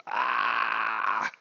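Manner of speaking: drawn-out "ah" of frustration; exasperated groan. Acted. Gamer reacting to a bad interface, exasperated groan. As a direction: let out a long exasperated "ah". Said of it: "make you go".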